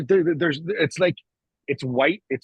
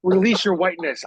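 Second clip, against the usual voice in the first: high mocking voice, much higher; mocking the woman; 11 semitones higher, 3 dB louder than usual. Mocking the redhead who lectures people in a high put-on voice. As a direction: parody her preachy advice in a high voice. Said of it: "she's telling people".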